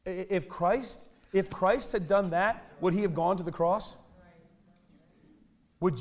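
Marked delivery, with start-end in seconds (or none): 0.1-4.0 slow emphasis. Real, not acted. Slow dramatic preaching.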